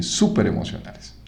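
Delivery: whispered súper emocionales, no voice at all. Shown as a demonstration. Teacher whispering the phrase back to the class, whispered.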